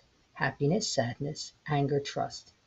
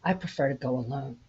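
softer, reluctant, sad reply; unwilling; 3 dB quieter than usual. Acted. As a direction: turn him down with a sigh in the voice. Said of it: "Sadness unwillingly responded".

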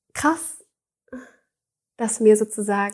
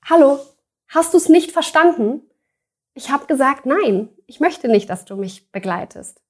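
higher and louder, an irritated retold no; sharp retold refusal; 4 semitones higher, 4 dB louder than usual. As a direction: tell him off a second time, more insistent.

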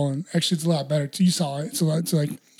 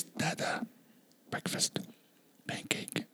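imitating toddler; 13 dB quieter, much slower than usual. Toddler daughter quoted asking for food.

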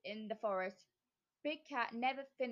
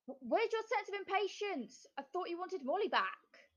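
high, mocking witch voice; taunting witch; 8 semitones higher than usual. A narrator's reading. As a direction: needle her in a shrill-free high pitch. Witch taunts Lana Lou.

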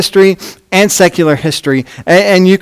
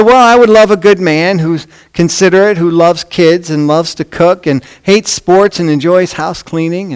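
eager woman voice; 3 semitones higher than usual. Acted.

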